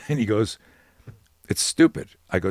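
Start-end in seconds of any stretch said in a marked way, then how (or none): 1.5-2.1 much higher and louder, half-laughing embarrassment; sheepish fighter. Retold or imitated. Fighter to his coach, high embarrassed half-laugh. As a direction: squeak it out like an embarrassed young fighter.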